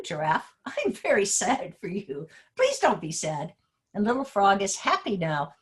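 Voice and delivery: animated, sing-song story-time reading; lilting teacher read-aloud with lightly voiced animal dialogue; reading to children. Shown as a demonstration. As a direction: read a picture book to young pupils, stretching key words.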